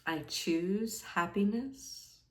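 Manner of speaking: calm meditation guide, leaving space after each phrase; guided meditation. Acted. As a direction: offer each affirmation gently, unhurried. Guides a meditation with sample affirmations.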